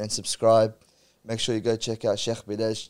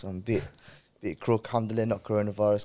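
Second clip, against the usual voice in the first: croaky voice from a cold. Real, not acted. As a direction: talk through a croaky throat. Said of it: "sorry about the croaky voice".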